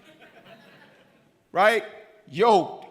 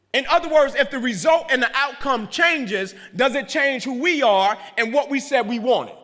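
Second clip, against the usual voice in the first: preaching build; 3 semitones higher than usual. Acted. Speaker fires up the audience about commitment, rousing preacher voice. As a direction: rouse the room like a revival.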